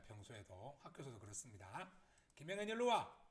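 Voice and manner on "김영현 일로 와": loud, high mock-angry summons; angry mom. Mom summoning child by name, angry voice. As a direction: call the child over crossly. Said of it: "엄마의 화난 목소리입니다".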